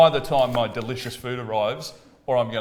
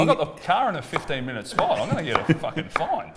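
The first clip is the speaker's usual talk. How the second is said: panicky dad; 5 semitones higher than usual. Retold or imitated. Panicked dad over parking.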